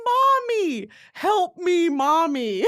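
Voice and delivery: high, loud whimpering plea; mock-cry for help like a lost kid; drunk wail for mommy. Drunk voicemail to her mom, hammed-up crying plea. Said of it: "called her mommy".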